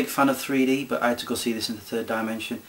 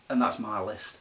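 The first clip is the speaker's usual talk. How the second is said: ordinary talk, nothing marked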